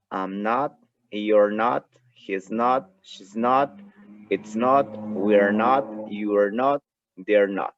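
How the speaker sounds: "I'm not", "you're not", "she's not" with rising "not"; contracted negatives. Shown as a demonstration. Teacher models contracted negatives for students. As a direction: join "it's not" and "he's not" quickly. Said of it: "con contracción suena de la siguiente manera".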